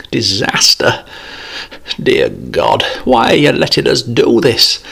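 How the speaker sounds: wailing plea; desperate wailing prayer. Acted. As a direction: cry out to God in despair. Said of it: "he wailed".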